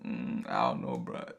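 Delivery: low, reluctant backing off; hesitant friend. Acted. Friend backing out after promising to ride or die, hesitant. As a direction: hedge in a low, doubtful voice. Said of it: "you get to a point where you're just like".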